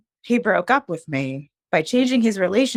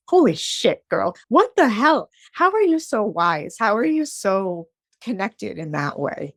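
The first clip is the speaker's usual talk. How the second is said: amazed exclamation; 4 semitones higher than usual. Retold or imitated. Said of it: "I'm like".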